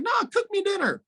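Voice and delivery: yelled high demand; bossy gods demanding dinner, shouted high; high mock shouted order. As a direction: bark it like a bossy god. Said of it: "They're like".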